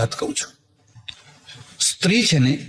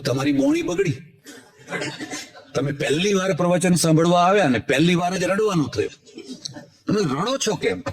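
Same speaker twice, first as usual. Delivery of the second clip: laughing tease; 3 semitones higher than usual. Retold or imitated. Teasing the weeping man.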